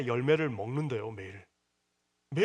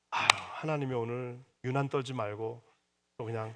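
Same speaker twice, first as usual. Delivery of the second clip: grateful acceptance; 4 semitones lower than usual. Retold or imitated. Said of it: "이래야지".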